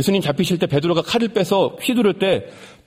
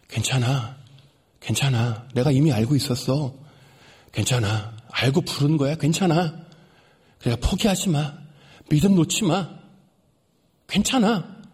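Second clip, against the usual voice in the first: gentle reassurance; 2 semitones lower than usual. Pretend. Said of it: "사랑의 눈빛이었습니다".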